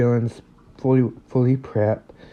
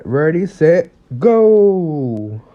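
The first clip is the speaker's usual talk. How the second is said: calling the start; 3 semitones higher, 4 dB louder, much slower than usual. Acted. All Might starting the training match, calling out. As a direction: start signal called out loud.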